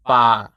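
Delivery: BA held on a level mid tone. Shown as a demonstration. Teacher showing learners the Thai mid tone, level mid tone. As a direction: say "ba" long at a middle pitch. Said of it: "That's the mid tone".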